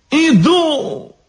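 high falsetto answering call; calling back. A narrator's reading. Elegant devil answering the guard, high call. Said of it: "откликнулся изящный чёрт".

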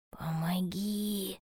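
slow, drawn-out breath of a plea; whisper. A narrator's reading. Bear cub asking hedgehog for help, slow whisper. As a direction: plead in a very soft, slow whisper. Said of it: "шепнул ёжику медвежонок".

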